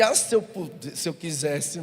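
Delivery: sighing "ah" with a sulky hint of threat; mock wife's grudging thought; if I only wanted. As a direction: grumble it under the kiss. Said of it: "Era vontade de".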